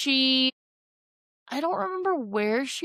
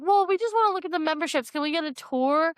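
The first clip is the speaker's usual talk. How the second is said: mock sweet talk; 5 semitones higher than usual. Mac schmoozing desk girl.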